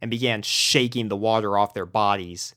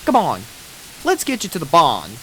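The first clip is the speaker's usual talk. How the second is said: Southern farm pony; 6 semitones higher than usual. Acted. Applejack voice.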